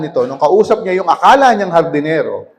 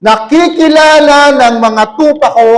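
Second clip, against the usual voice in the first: slow, solemn Jesus voice, a touch higher; lightly voiced shepherd's declaration; Jesus speaking; 3 semitones higher, 4 dB louder than usual. Jesus teaches as the good shepherd, slow and solemn. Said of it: "sabi niya".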